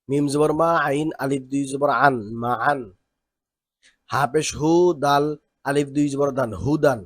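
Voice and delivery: teacher reading aloud for the class to follow; recitation drill. Shown as a demonstration. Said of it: "শুনি কিভাবে পড়তে হয়". (ক্লাসে সুর করে বানান পড়া)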